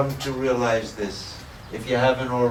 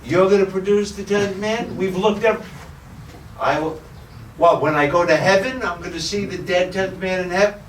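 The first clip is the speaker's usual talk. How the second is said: incredulous; 4 semitones higher than usual. Retold or imitated. Ninth man doubting the boatman, incredulous. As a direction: scoff at the promise.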